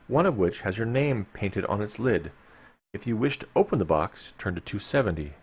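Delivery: measured gamebook reading to the listeners; story narration. A narrator's reading. Host reading gamebook text to listeners, storyteller narration. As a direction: read the dungeon text like a storyteller. Reads gamebook passage aloud.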